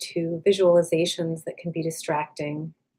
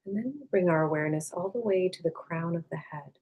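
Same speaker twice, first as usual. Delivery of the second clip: calm, unhurried meditation voice with long pauses; guided meditation; 3 dB quieter than usual. Acted. Meditation teacher leading listeners to release tension, calm and unhurried. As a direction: gently guide them inward, leaving space after each phrase.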